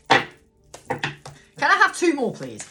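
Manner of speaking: high, slow, hammed-up plea; mock pleading. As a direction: stretch it out like a cheeky beggar. Asking cards in a put-on voice.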